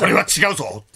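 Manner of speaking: mild mock shout of a spectator; 渡辺謙. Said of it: "福本さんの隣で大きな声で". (控えめに真似た大声)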